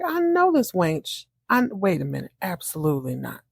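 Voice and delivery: a jealous woman catching her man's date; sassy confrontation. Retold or imitated. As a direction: call out the rival with attitude. Abby confronting Karen, retold.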